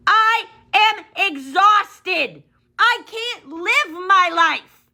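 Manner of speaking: slow, breaking into a cry; near tears. Real, not acted. Venting to viewers about work, slow and close to crying. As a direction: let the exhaustion crack the voice.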